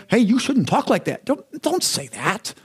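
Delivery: mock judgmental scolding. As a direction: imitate someone tut-tutting a friend's talk. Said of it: "There's no judgment".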